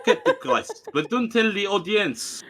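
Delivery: high, laughing mock child protest; whiny son voice. As Ludwig refusing his mom, whiny and high. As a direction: whine back at mom while laughing.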